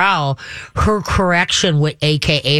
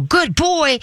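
very high, gushing praise; excited praise; 11 semitones higher than usual. Shown as a demonstration. Owner overpraises a sitting dog, excited. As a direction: squeal it as overexcited praise. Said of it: "if the dog sits and you go".

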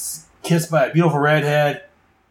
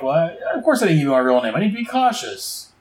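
defensive crook; 4 semitones higher than usual. Retold or imitated. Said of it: "He's like".

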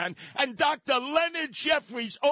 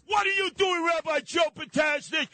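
angry radio host shouting a question at a rabbi; real shout; 3 semitones higher than usual. Real, not acted. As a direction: demand an answer, shouting. Ranting, calling out rabbi.

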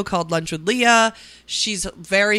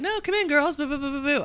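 imitating Jason; 8 semitones higher, 3 dB quieter, faster than usual. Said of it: "he was like".

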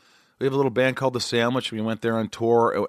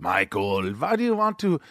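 Nico, exasperated; 6 semitones higher, slower than usual. Retold or imitated. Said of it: "He's like".

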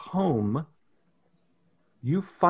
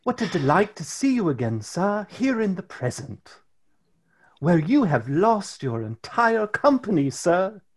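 polite little intern, sweetly needling; lightly voiced tiny intern; 3 semitones higher than usual.

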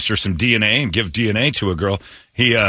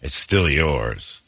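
much lower and much softer, dragged out slowly; sheepish admission; 8 semitones lower, 5 dB quieter, much slower than usual. Retold or imitated. Host voices the woman sheepishly admitting the baby is his, low, soft and slow. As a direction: mumble it like a guilty confession. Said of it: "she kinda said".

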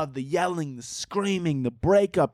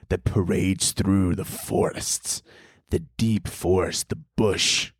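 mock sultry narrator; 2 semitones lower than usual. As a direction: draw it out like a cheesy romance narrator. Resumes mock sensual narration.

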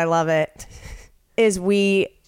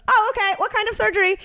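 much higher, chirpy mock receptionist; 11 semitones higher, faster than usual. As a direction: play the overly sweet receptionist. Receptionist voiced in story.

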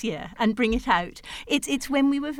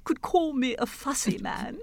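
whimpering. Acted. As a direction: whimper it like a sulky king. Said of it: "he whimpered".

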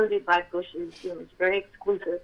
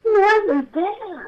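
drawn out very slowly, much higher and louder; stunned disbelief; 12 semitones higher, 6 dB louder, much slower than usual. Real, not acted. Telling listeners the angel had vanished, in stunned disbelief. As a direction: let the shock hit, stretch every word.

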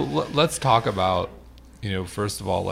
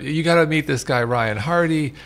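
imitating Frank; 4 semitones higher than usual. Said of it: "I can't do Frank's accent".

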